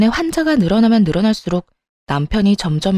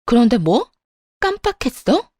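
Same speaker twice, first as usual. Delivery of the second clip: rising sharply higher in outraged disbelief; incredulous echo; 3 semitones higher than usual. Acted. Wife repeating her husband's excuse, outraged and incredulous. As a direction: throw his words back at him, stunned.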